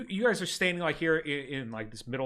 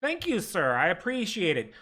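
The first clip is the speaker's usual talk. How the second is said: flattered clerk; 3 semitones higher than usual. Acted. Clerk thanks the charming player. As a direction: accept the compliment, a bit charmed.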